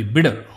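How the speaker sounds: bitter said as "bidder"; double T as D. Shown as a demonstration. Teacher explaining double T, bitter with a D sound. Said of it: "it becomes a D".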